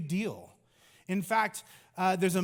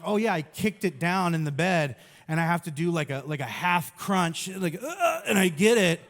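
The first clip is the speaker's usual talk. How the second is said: excited mock excuse; 4 dB louder than usual. Joking excuse to the doctor.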